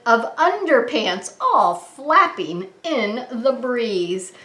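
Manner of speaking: lively sing-song picture-book read; reading to children. Acted. Reading a silly rhyming book to kids, sing-song. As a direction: bounce the rhyme for little listeners.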